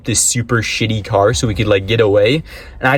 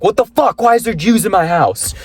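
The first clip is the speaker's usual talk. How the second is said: 1 shocked outburst; 9 semitones higher than usual. Retold or imitated. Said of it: "So I'm like".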